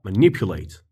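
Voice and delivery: manipulate with the stress on the second syllable, ma-NIP-u-late. Shown as a demonstration. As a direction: land the weight on NIP in manipulate. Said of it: "l'accent tonique sur l'avant-avant-dernière syllabe". (accent tonique sur NIP dans manipulate)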